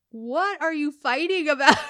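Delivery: laughing too hard to take the fight seriously; wife giggling at her angry husband; laughing question. Retold or imitated. Laughing during an argument.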